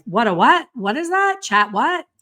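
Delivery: mock baffled squeak, pitch jumping up; a loud, jumpy "What is that?"; confused surprise. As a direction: play the puzzled friend who can't catch the word. People confused by fast "Chat GPT.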